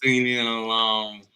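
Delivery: mock Texan accent. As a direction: play a Texan meeting an old pal. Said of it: "we just both do Texan".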